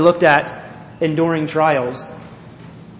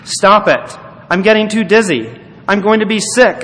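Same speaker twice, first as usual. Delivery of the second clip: high, raised-voice plea; screamed complaint; 5 semitones higher, 5 dB louder than usual. Acted. Dizzy clay begging the master to stop, mock scream. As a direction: cry out high, short of a full scream. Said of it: "I screamed".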